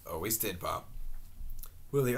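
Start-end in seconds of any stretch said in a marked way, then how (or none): 0.1-0.9 deeply moved. A narrator's reading. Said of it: "deeply moved".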